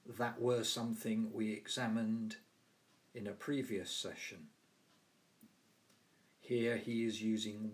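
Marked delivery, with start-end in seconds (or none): 0.1-4.5 "were" in place of "was", Yorkshire style; Yorkshire dialect "were". Shown as a demonstration. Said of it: "he referred to".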